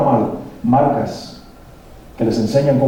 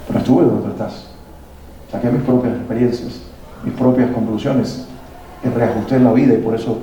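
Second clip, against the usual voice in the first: understanding parent; 3 semitones lower than usual. Retold or imitated. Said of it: "puedo sentarme y decirle".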